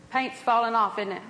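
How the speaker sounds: casual, understated hinting; cushioned, indirect nudge; dropping a hint. Retold or imitated. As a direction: float it lightly as an offhand remark. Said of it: "drop a little hint here".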